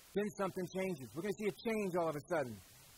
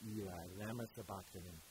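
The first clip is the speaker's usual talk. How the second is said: hushed cry; 7 semitones lower, 9 dB quieter than usual. Acted. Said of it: "cried out with a loud voice".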